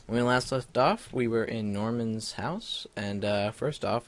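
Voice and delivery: slight lisp, sore tongue; lisp from canker sore. Real, not acted. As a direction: talk around a sore on the tongue. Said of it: "if it sounds like I'm talking with a lisp".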